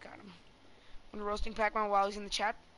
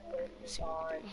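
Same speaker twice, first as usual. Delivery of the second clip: squeaky voice; 6 dB quieter than usual. Real, not acted. High squeaky voice.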